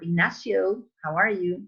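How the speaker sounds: Ignacio with American vowels; Anglicized Ignacio in an American greeting; American accent. Acted. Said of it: "An American guy is gonna say".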